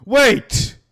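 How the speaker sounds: sudden high, loud cry of disbelief; high-pitched yelp of real surprise; shocked outburst. Real, not acted. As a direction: blurt it out, stunned. Shocked at own old voice.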